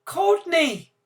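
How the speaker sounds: high, loud, trembling cry of the name; quavering. Acted. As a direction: call out with a quavering voice. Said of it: "say in a quavering voice".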